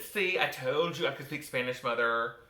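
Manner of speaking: mildly smug told-you-so; proud boasting. Retold or imitated. Teenager proud of own bilinguality to mother, mildly smug. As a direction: brag a little to your mother. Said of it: "Feeling quite proud of my bilinguality".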